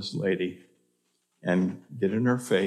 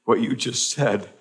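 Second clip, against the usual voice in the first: emotional retelling; 3 semitones higher, 4 dB louder than usual. Retold or imitated. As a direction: voice the stunned woman's outburst. Suicidal lady quoted.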